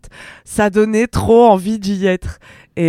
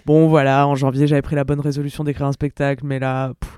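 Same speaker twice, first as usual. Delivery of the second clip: lassitude; 5 semitones lower than usual. Retold or imitated. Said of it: "je disais dans mon vlog".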